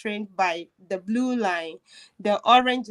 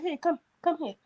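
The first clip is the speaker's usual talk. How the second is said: softly coaxing, slightly higher voice; retold kindly stranger, softly beckoning; gentle coaxing; 4 semitones higher, 4 dB quieter, faster than usual. Kind stranger takes her hand.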